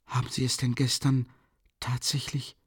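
soft, strained whisper, fading to breath; effortful whisper. A narrator's reading. Sonja asks Raskolnikov in a strained, breathy whisper. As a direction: barely get the words out in a whisper. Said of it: "flüsterte Sonja mit Mühe".

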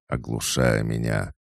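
ordinary delivery, nothing marked

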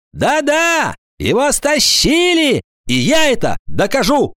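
high, emphatic schoolboy vow; distinct, slow proclamation. A narrator's reading. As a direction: declare it word by word. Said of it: "отчётливо, медленно и громко". (торжественно, отчётливо, с нажимом)

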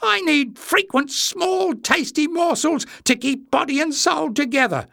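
very high, pitiful squeak; high-pitched self-pity; whimpering. A narrator's reading. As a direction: whimper the excuse in a tiny high voice. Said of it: "Jinx whimpered".

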